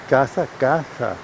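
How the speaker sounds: casa said slowly with two open a's; casa pronunciada despacio; careful Spanish casa. Shown as a demonstration. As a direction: spell out the sound of casa. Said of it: "no se dice queisa".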